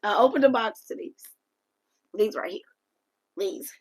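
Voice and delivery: high, loud reveal of the gift. Real, not acted. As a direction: burst out with the reveal.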